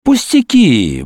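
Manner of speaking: slow, brisk cheer; cheerful. Acted. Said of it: "бодро произнёс Петенька".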